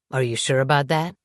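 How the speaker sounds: coolly confident, faintly condescending question; calm, patronizing. A narrator's reading. Man doubting his ex's claim to be happy, calmly patronizing. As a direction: ask it calmly, a little patronizing. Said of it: "he asked calmly, in a confident and patronizing way".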